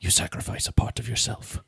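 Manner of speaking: measured movie-quote voice with spaced phrases; busting out movie lines. Retold or imitated. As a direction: deliver it like a weighty martial-arts proverb. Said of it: "I was even busting out lines".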